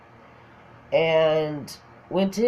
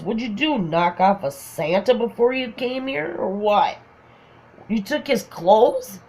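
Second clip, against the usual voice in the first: higher-pitched mock disbelief; incredulous teasing; 4 semitones higher than usual. Friend ribbing her about the Santa-like shirt, incredulous. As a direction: imitate someone amazed at an outfit.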